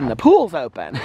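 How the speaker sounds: lightly imitated joke, amused; Alex being silly. Retelling Alex's pool joke, lightly silly and amused. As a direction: quote the teasing punchline with a laugh. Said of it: "He was being so silly".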